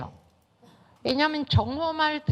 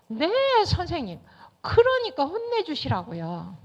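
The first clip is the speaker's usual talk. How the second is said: put-on eager child; 4 semitones higher than usual. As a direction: pester the teacher like a kid who wants revenge. Child insisting to teacher. (선생님께 조르는 아이 목소리, 높고 크게)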